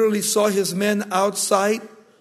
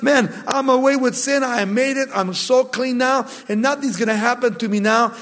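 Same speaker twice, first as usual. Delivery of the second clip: excited; 3 semitones higher than usual. Retold or imitated. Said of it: "he was so excited".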